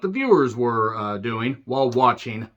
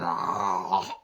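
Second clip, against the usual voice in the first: imitated death noise; 5 semitones lower, 4 dB quieter than usual. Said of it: "gets twisted around and all this".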